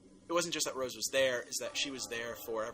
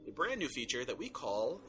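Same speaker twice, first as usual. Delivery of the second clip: podcast promo read. Acted. Hosts promoting their new feature, announcer read. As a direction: sell the next episodes to listeners.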